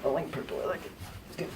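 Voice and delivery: high, loud and silly; goofy high voice. Pretend. Co-host shows off purple shorts in a silly high voice. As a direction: show off like a proud kid.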